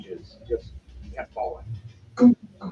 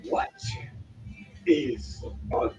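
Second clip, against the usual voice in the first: slow, hushed dragon; dragon-esque voice; 6 dB quieter, slower than usual. Acted. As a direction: draw each word out like a puzzled dragon. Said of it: "from some kind of dragon-esque voice".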